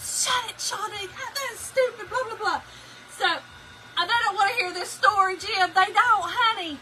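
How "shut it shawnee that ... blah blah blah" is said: husband's mock grumble. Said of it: "He was like".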